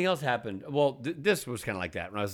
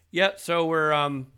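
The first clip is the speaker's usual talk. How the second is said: voicemail guy; 4 semitones higher, 3 dB louder, slower than usual. Retold or imitated. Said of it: "He's like".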